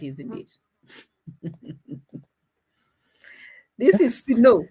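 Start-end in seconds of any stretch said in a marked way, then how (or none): 3.8-4.6 "snow" as two syllables, "si-no", pitched up; Nasto's snow pronunciation. Retold or imitated. Mocking how a man calls snow, higher, as "si-no". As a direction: mimic it higher, saying "snow" as "si-no". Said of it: "The way he's calling snow".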